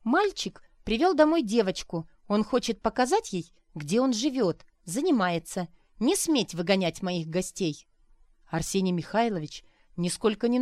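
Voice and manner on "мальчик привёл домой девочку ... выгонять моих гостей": heated protective rebuke; angry hostess. Acted. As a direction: defend her son's guests. Arina angry at teacher.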